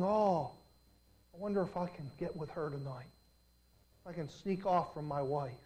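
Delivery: low, soft scheming murmur; hushed inner thoughts. Retold or imitated. Man at the party plotting, quiet sneaky murmur. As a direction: mutter it like a secret plan. Voicing a lustful man's thoughts.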